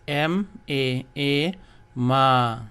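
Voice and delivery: M A A ma, slowly, stretching the long a; teacher demonstrating a long vowel; long stressed ma. Shown as a demonstration. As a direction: spell it slowly and lean on the long a. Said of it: "Once again".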